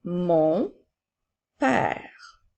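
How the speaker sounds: each word spaced out and clearly set apart; slow dictation. Shown as a demonstration. Teacher dictating to a child, slow and distinct. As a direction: dictate slowly to a pupil writing.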